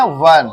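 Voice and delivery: वन said slowly with a clear rounded W; teacher's careful वन; pronunciation model. Shown as a demonstration. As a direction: model वन for the class. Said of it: "इसको कहते हैं".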